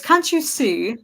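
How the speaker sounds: put-on pompous British accent, high; posh British impression. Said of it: "It's gotta be British".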